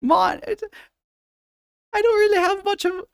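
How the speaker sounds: high falsetto Irish brogue; Irish accent. Shown as a demonstration. Streamer keeps Irish accent while talking to chat. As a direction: chatter on in a stage-Irish voice.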